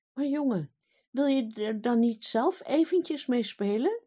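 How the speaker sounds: a father who cannot believe it; king astonished at his son; baffled father. Acted.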